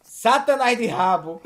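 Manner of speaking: slow, loud, theatrical insult; expressive insult intonation. Real, not acted. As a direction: hurl it with big, drawn-out intonation. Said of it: "Eu amo que você faz a entonação". (xingamento com entonação teatral)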